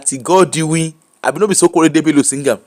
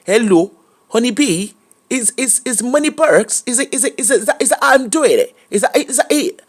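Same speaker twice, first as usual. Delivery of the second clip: put-on posh UK accent; 5 semitones higher than usual. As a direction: try on a posh British voice. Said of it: "learn a U K accent".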